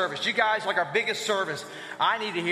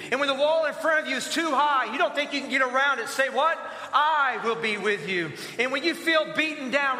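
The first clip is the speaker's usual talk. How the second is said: rallying preaching; 3 semitones higher than usual. Real, not acted. Preacher rallies standing church to answer each fear, rallying preaching. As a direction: lead a congregational chant with great conviction, driving each prompt upward. Rallies congregation in call and response.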